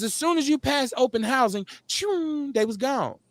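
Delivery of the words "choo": high, drawn-out zoom sound; whooshing "choo". Retold or imitated. Residents fleeing once open housing passed, imitated whoosh. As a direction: imitate a quick getaway.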